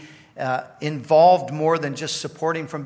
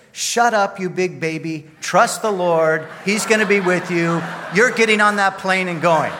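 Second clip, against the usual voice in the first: mock bossy shout, ordering a big baby about; Cheryl; 3 semitones higher, 7 dB louder than usual. Wife ordering her fearful husband onto the plane, loud and bossy. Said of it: "the voice said something like this".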